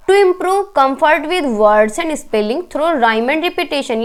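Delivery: reads the exam question out very slowly; deliberate classroom dictation pace; slow question reading. Acted. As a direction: spell out each word of the question for the class. Reads exam option aloud.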